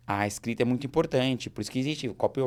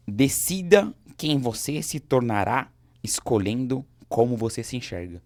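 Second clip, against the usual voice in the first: slow, punchy motto reading; measured and forceful, like a motto; emphatic quote reading; 5 dB louder, slower than usual. Real, not acted. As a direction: read it out slowly, weighting each phrase.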